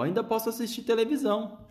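bem agudo e lento, vozinha de menino minúsculo; vozinha esganiçada. A narrator's reading. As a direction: estique a vozinha fina. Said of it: "a vozinha esganiçada do Miguel". (menino minúsculo retrucando aos pais, esganiçado)

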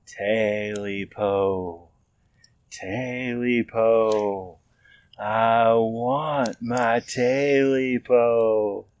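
slow, drawn-out, eerie wail; a hidden creature moaning for its lost tail. A narrator's reading. Creature in the dark moaning for its tail, slow eerie wail.

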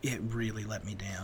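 breathy whisper of disappointment; whispered letdown. Real, not acted. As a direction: whisper it, deflated.

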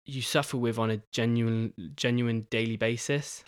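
stumbling, repeating words; halting stutter on words. Real, not acted. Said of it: "I'm stuttering my words".

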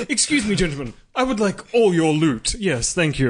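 lightly voiced courteous pirate; measured, well-mannered robber; gentleman pirate. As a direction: politely demand the treasure. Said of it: "that's a gentleman pirate".

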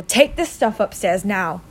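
slow, weighted command; snapped order. Acted. Uncle sends the boy upstairs, snapping. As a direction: order it word by word. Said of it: "snapped his uncle".

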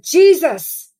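high, loud desperate cry of a name; high pleading yell. Retold or imitated. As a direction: cry out for rescue, retelling a waking scream. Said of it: "and I yelled out".

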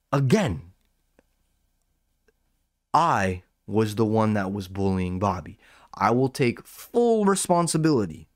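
lightly put-on, earnest apologizing voice; mock-solemn confession with swooping emphasis; Callan impression. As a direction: play a slightly hammed-up apology. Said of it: "impression of everybody yet? Oh, Callan".

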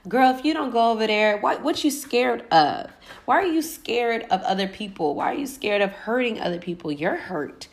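high, loud, sassy scolding; scolding ancestors. Retold or imitated. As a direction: push her like nagging elders. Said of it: "my ancestors behind me talking about some".

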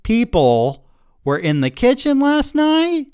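husband finally erupting at his wife, outraged. A narrator's reading. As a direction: explode in slow, stretched indignation. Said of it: "built to an outraged".

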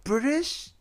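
lightly mocking student, pitch starting high; imitating returnee student. Returnee student needling the English teacher, lightly mocking. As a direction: mimic a puzzled student picking at an accent. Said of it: "半年前に帰ってきたやつらとか".

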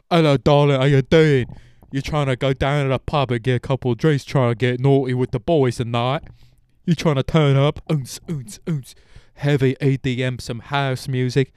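loud, high, put-on British party voice; party Brit accent. Mocking Brits heading out to party, loud British accent. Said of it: "the Brits are out there".

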